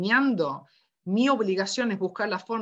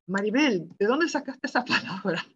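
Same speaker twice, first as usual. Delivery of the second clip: raised pitch, laughing through the question; re-enacted incredulous question; amused disbelief; faster than usual. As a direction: ask it in mock astonishment, breaking into a laugh. Acted amused question to colleague.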